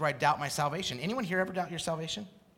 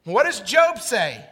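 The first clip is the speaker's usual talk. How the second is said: ordinary talk, nothing marked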